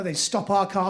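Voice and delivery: ordinary delivery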